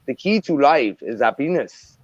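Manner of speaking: hammed-up Canadian accent; mock Canadian accent. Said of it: "I'm using a mockery of a Canadian accent".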